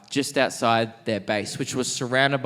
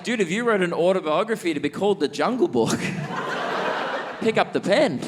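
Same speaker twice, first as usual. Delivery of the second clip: excited urging; 7 semitones higher, faster than usual. Retold or imitated. Urging him to write a memoir.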